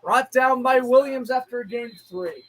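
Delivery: quick, even broadcast call; brisk play-by-play. Acted. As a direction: run through the down like an announcer.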